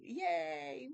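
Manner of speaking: high, loud, gleeful yay; little cheer. Real, not acted. Streamer hoping to finish Genesis, cheering. Cheering getting through the chapters.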